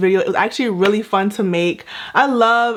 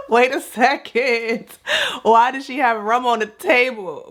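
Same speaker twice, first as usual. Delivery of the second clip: laughing disbelief; 3 semitones higher than usual. Retold or imitated. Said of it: "And I was like".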